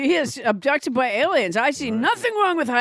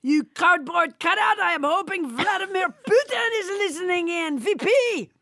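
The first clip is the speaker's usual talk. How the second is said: put-on higher hand-puppet Trump with French accent; blustering puppet Trump, a bit higher; 4 semitones higher than usual. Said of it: "French Trump".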